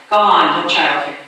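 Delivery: captain of the guard barks a brush-off at his soldiers; captain's gruff dismissal. Retold or imitated. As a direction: bark it like a guard waving men on. Captain waves soldiers past.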